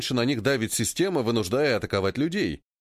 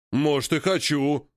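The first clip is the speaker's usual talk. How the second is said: defiant ape voice; slower than usual. Acted. Ape accepts challenge.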